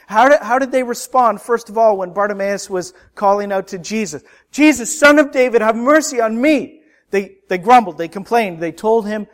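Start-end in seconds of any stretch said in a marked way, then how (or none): 4.5-6.8 raised, pleading call for mercy. Retold or imitated. Blind man crying out to Jesus, a raised plea. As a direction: call out across the crowd for help.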